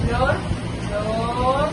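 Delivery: drawn out, said loudly; slow sounding out. Shown as a demonstration. Teacher reading flor slowly to find syllables. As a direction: stretch the word flor out slowly. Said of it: "leer la palabra despacio".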